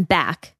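"back" leaned on and falling; stress on back. Shown as a demonstration. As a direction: hit the word "back" hard. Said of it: "emphasis on back".

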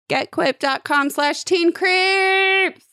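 high, slow sing-song promo; sing-song announcer. Acted. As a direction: stretch the URL out like a jingle.

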